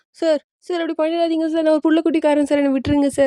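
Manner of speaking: begging rapidly for mercy, understated; mild wailing plea. Acted. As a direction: plead like a desperate employee, without full wailing. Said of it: "இவன் வந்து கதறிட்டு இருப்பான்". (லேசான கதறலுடன் கெஞ்சல்)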